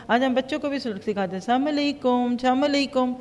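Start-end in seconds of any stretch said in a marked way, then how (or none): 1.4-2.3 السلام علیکم said quickly as "esam alekum", the opening swallowed; the careless children's version of السلام علیکم; wrong, blurred salam. Shown as a demonstration. Teacher showing the wrong greeting children learn, swallowed. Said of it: "غلط بات ہے". 2.3-3.1 السلام علیکم clipped to "cham alekum"; the sloppy slurred version of السلام علیکم; wrong, blurred salam. Shown as a demonstration. Teacher showing the wrong greeting children learn, slurred. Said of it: "غلط بات ہے".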